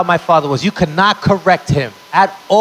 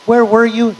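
higher-pitched mock wife; imagined wife; 6 semitones higher than usual. Latina wife greets her late husband, higher mock voice. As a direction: lift the pitch, imitating a wife's greeting. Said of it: "she's not gonna say".

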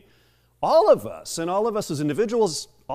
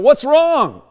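high, loud alarmed mother; sudden acted shout, pitch leaping up; imitated cry of alarm; 11 semitones higher, 11 dB louder than usual. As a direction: cry out like a panicked mom. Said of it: "her mom cries out".

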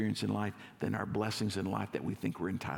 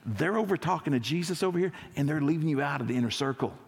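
1 gossipy disciple; 2 semitones higher than usual. Retold or imitated. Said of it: "and he's like".

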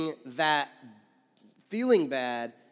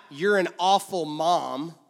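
louder, slow accusing; slow, louder devil's accusation; condemning accusation; 5 dB louder, slower than usual. Shown as a demonstration. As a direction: hammer the accusation slowly. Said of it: "You see the difference?".

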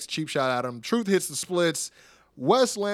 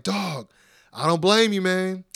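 mock-excited hype, building louder and higher; R-Truth; 6 semitones higher, 8 dB louder, slower than usual. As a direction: play an impressed fan getting carried away. Acting Truth hyping up Apollo.

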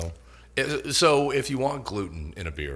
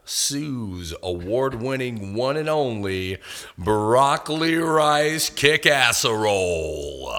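slow, drawn-out showman reveal, louder at the end; grand announcer; 4 dB louder, slower than usual. Acted. Host unveiling the special to listeners, slow and grand. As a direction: present the dish like a game show host.

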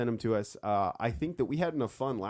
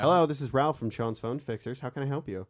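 polite phone-support greeting; lightly put-on call-centre voice; customer service voice. Shown as a demonstration. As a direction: demonstrate a helpful tech-support agent answering a call. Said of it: "I had a wildly different voice".

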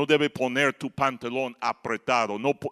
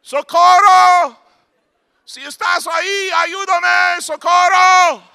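high, slow, drawn-out yell with a laugh; comic high drawn-out cry; laughing shout; 13 dB louder, slower than usual. Retold or imitated. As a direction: stretch out Socorro, laughing as you yell. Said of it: "he escuchado a los mexicanos gritar".

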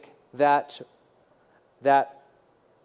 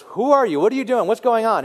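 questioning crowd; 5 semitones higher, 4 dB louder than usual. Retold or imitated. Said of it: "When they were asking John the Baptist".

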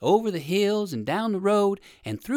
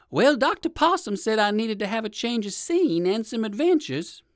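higher, lightly voiced storybook rabbit; higher-pitched musing rabbit; old rabbit deciding; 5 semitones higher than usual. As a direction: reason it out aloud as a bunny.

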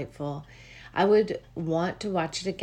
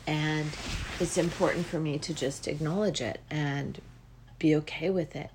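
gentle realization; 5 dB quieter than usual. Retold or imitated. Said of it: "But then I'm like".

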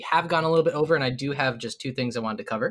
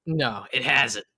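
barkeep denial; 3 semitones lower, slower than usual. Acted. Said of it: "he responds".

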